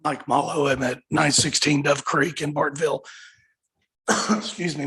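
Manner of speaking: rough, worn-out hoarse voice. Real, not acted. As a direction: talk through a shot, hoarse throat. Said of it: "my voice is shot".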